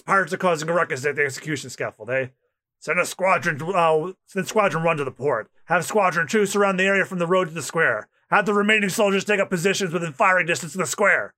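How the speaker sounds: navy captain coolly deploying his squadrons; Smoker. Acted. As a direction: rattle off commands without raising the voice. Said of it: "that's Smoker".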